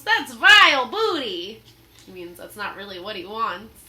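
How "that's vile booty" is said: loud sneering pirate verdict; pirate scorn. Acted. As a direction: spit out the words.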